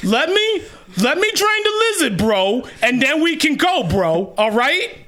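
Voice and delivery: lightly voiced frat bro. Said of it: "Is this your bro voice".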